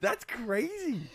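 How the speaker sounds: giggling while saying it; words through real laughter; laughing. Real, not acted. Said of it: "laughing together".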